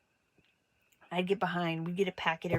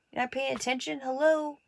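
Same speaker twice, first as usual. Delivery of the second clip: scolding teacher; 6 semitones higher than usual. Retold or imitated.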